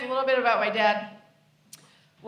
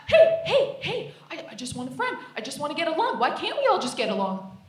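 eager golden retriever man; 3 semitones higher than usual. Acted. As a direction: play a friendly dog who wants a pal. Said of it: "adequate white guys are like the golden retrievers".

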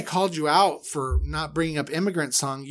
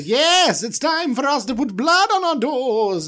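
Aaron voice; 9 semitones higher, 5 dB louder than usual. Retold or imitated. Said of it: "I love Aaron's voice".

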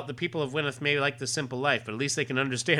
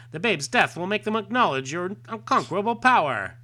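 grand villain declaration; 8 semitones higher, 5 dB louder than usual. Acted.

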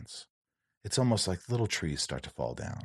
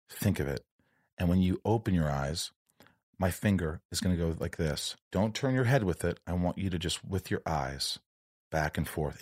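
like a kind therapist easing him in; imitating a calm therapist; 3 semitones lower than usual. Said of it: "She's so sweet and so calm".

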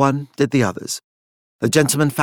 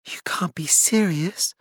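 whisper; 6 semitones higher, 5 dB quieter than usual. Acted. Stunned disbelief at Elizabeth.

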